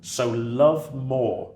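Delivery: slow, reverent reading of a quote; poem reading. Acted. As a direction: lay each line down slowly like poetry. Reads Victor Hugo quotes aloud.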